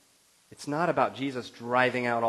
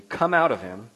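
firm, louder command; stern command; 8 dB louder than usual. Acted. Jesus driving out the demon, stern command. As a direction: order it out with authority. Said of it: "said Jesus sternly".

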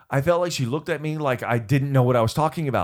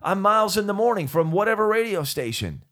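radio DJ voice; 8 semitones higher than usual. Retold or imitated. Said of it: "go out in front of huge crowds to say".

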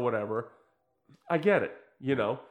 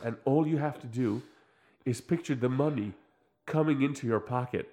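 mock metaphysician; 4 semitones lower than usual. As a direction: imitate a self-help guru, low and hushed. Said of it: "And he's just like".

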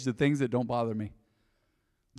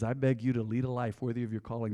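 reading scripture softly; 4 semitones lower, 6 dB quieter than usual. Retold or imitated. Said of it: "This is the Apostle Paul".

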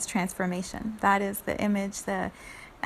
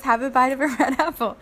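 laughing snake; 2 semitones higher, 6 dB louder, faster than usual. Acted. Snake offers, teller laughs.

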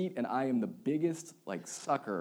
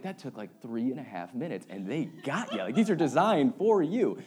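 teasing, laughing; 4 dB louder than usual. Retold or imitated. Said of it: "I'm like".

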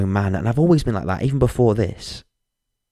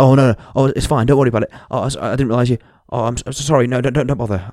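flustered, slightly louder apologies; mock panic; 3 dB louder, faster than usual. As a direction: play the panicking stranger, lightly. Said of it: "started to panic".

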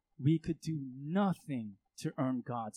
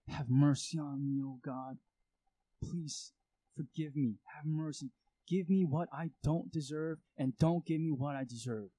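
earnest prayer; 4 dB louder than usual. Pretend. Imagined earnest prayer to God.

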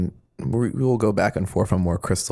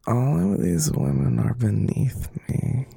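slow, whispered vocal fry take; Crystal impression; 2 semitones higher, slower than usual. Shown as a demonstration. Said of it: "Deep breath, Josh. You can do this".

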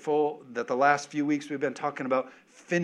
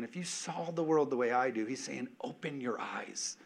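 soft intimate voice; 6 dB quieter than usual. Acted. Whispered intimate quote.

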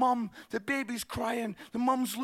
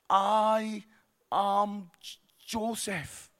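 put-on scared little boy; 3 semitones lower, much slower than usual. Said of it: "looking really scared".

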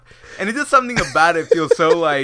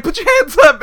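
higher, louder command through laughter; mock police order; 12 semitones higher, 7 dB louder than usual. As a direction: bark it like a cop making an arrest. Doctor ordering hands up.

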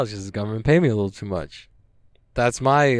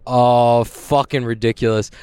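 ordinary delivery

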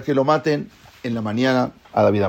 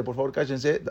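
hushing; 11 dB quieter than usual. Acted. Hushing a crowd of students.

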